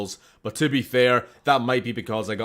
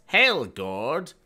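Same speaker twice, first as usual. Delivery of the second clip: hint of a scientist, HELL pitched up; 3 semitones higher, 4 dB louder than usual. Showing the Hellgourd pun, lightly voiced scientist. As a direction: say it like a scientist, lifting at the end. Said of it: "say it like a scientist".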